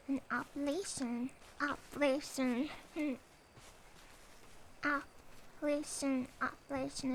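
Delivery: saying "Appalachian" softly, testing the vowels; trying Appalachian pronunciation. Shown as a demonstration. Streamer practicing the word "Appalachian" aloud, softly testing it. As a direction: sound out "Appalachian" several ways. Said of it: "I wanna learn how to do an Appalachian accent".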